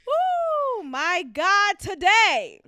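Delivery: loud, high laughing exclamation. Real, not acted. Host cracking up at her own story, loud. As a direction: burst out laughing.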